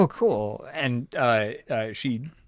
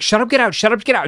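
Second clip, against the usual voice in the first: high, loud retold yell; repeated yelling; 12 semitones higher, 8 dB louder, much faster than usual. Game master voicing the girl chasing the couple out, yelling repeatedly. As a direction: chant it insistently to drive them out. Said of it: "just repeating that until they leave the room".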